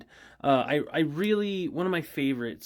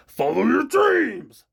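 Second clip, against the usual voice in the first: cheery shout; 10 semitones higher, 9 dB louder, slower than usual. Acted. Signature sign-off shout.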